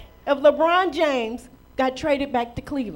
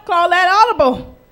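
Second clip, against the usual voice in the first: loud; 4 dB louder than usual. Shown as a demonstration. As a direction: Call that audible said out loud and firm. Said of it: "what Pastor Rick taught us".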